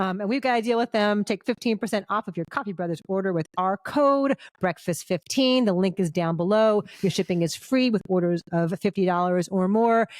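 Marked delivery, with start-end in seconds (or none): 1.2-10.1 smooth sponsor read; podcast host ad read. Acted. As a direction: sell the coffee code like a host ad. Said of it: "Is this another ad?".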